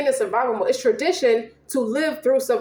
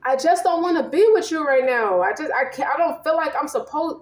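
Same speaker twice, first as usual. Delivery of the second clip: lightly voiced woman pulling away; 4 semitones higher than usual. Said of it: "another dream came on where she's saying the same thing".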